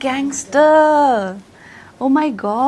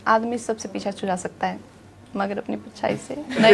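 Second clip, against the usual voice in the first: softer, knowing reading with a little laugh; own style; 3 dB quieter than usual. Shown as a demonstration. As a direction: play it quiet and wry. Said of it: "say it in your own style".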